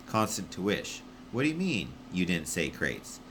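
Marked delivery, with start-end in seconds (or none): 1.3-3.2 puzzled radio voice. Acted. Constant confused over radio.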